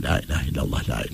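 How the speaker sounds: softly recited under the breath; self-audible dhikr. Shown as a demonstration. Showing how he starts his dhikr, softly to himself. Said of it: "kendi duyacağın sesle de söyleyebilirsin".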